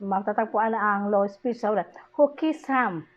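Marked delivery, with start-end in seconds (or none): 2.2-3.1 high "Who", stepping down to "Sam"; falling question tune. Shown as a demonstration. Teacher showing pitch going down, falling on "Sam". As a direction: let "Sam" drop. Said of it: "O, bumababa".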